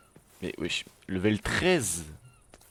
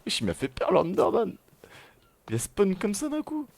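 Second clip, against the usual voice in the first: encore sous le choc; 13 semitones higher, 6 dB louder than usual. Real, not acted. Raconte la frayeur, encore secoué.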